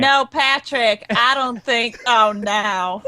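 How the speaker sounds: Mila's voice. Acted. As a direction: echo the line in Mila's own voice. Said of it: "Mila's voice and touch it to Al".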